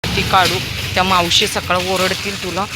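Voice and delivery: loud scolding of a dog in the trash. Real, not acted. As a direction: tell him off for the rubbish.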